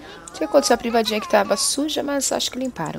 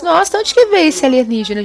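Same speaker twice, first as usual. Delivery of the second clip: surprised, louder; 8 semitones higher, 7 dB louder than usual. Real, not acted. Surprised alien appeared.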